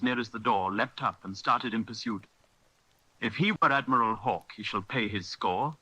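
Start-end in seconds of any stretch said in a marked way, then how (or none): 3.2-5.8 cried out. Acted. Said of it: "cried Silver".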